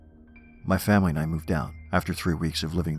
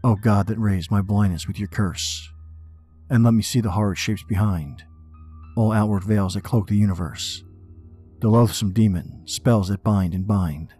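dramatic poem reading; 3 semitones higher than usual. Acted. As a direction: read it like a haunted man.

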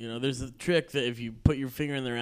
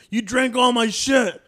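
mock drunk accusation; 11 semitones higher, 9 dB louder than usual. Retelling drunk's accusing text.

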